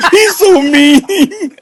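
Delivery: put-on high, slow little-kid whine; whiny kid. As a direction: complain like a hurt eight-year-old. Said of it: "we're like".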